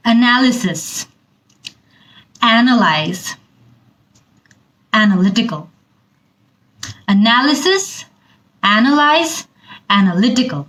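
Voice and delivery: each word read with a marked stressed syllable; word stress demo. Shown as a demonstration. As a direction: model the stress on every word in the list. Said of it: "আমি stress কোন জায়গাগুলোতে দিচ্ছি". (স্ট্রেস দেখিয়ে শব্দগুলো পড়া)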